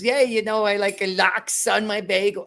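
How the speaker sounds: Hasidic merchant voice. Retold or imitated. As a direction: ham up a diamond merchant ordering bagels. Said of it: "the Hasidic diamond merchants".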